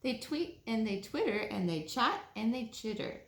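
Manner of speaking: slow, sing-song read-aloud voice; storybook reading. A narrator's reading. Reading a bedtime story to children, slow and sing-song. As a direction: read it slowly like a bedtime picture book.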